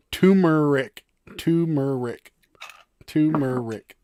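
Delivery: "Turmeric" without its first R, TOO-muh-rick. Shown as a demonstration. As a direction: drop the first R in "Turmeric", drawn out. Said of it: "never knew about the first R".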